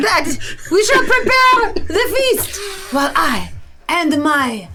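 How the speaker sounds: put-on grand French-accented captain's announcement; Von Zief's French accent. Captain addresses his crew through a tube, French accent. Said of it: "That is very French also".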